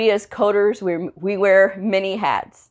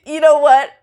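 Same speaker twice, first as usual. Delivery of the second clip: you know what, louder and high; a louder, higher you know what; louder exasperated repeat; 9 semitones higher, 8 dB louder than usual. Retold or imitated. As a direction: push it out, fed up. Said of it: "I'm done".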